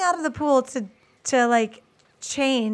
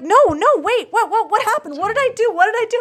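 higher and louder, laughing through a desperate plea; hammed-up frantic questions; mock panicked pleading; 8 semitones higher, 4 dB louder than usual. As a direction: play him scrambling, half-laughing. He begs to know what happened.

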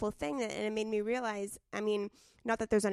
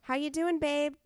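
gushing email voice; 5 semitones higher than usual. Retold or imitated. Guest reads her cheery emails to podcast guests, gushing. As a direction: gush like a fond friend. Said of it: "I'm like".

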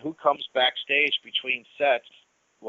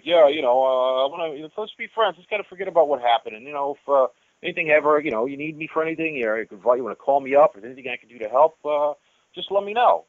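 mock-friendly ex-bandmate, pitched higher and louder; sudden friendliness; 4 semitones higher, 5 dB louder than usual. Old rival suddenly buddying up to the singer, mock-friendly. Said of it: "shocking change of attitude and change of heart".

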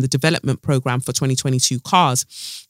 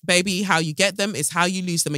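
softer knowing repeat; 3 dB quieter than usual. Real, not acted. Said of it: "repeated phrase".

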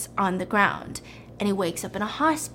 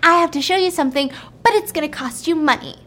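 lightly voiced kid, fast and higher; little kid; 5 semitones higher, 4 dB louder, faster than usual. Little kid pitching a secret to Sophie, quick and eager. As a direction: rattle it off like a pushy kid. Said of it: "the little kid says".

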